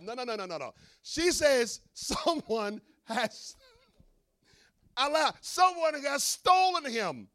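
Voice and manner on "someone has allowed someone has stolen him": slow, drawn-out mock lament. Preacher voicing Mary at the tomb, slow and drawn out. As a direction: stretch each word out in dismay.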